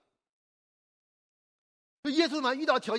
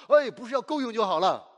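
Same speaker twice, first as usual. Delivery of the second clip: louder rebuke, 哎 punched at the start; firm correction; 5 dB louder than usual. Shown as a demonstration. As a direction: reject the idea of 够用 with force.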